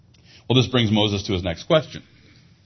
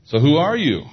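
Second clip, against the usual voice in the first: Moses pressing God, pitched up and louder; pleading who are you; urgent question; 7 semitones higher, 5 dB louder than usual. Acted. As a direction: demand the answer, insistent. Moses voiced asking God's name.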